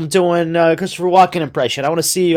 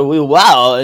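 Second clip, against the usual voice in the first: lower, drawn-out mock wow; Goldblum imitation; 5 semitones lower, 4 dB louder than usual. Co-host showing Goldblum's cadence, imitated low wow. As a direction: imitate an actor's musing wow. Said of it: "The way that he, like".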